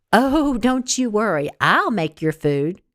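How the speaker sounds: slow muttered grudging reply; a touch of suppressed anger. Acted. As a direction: say it slowly through resentment. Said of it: "Gracie muttered".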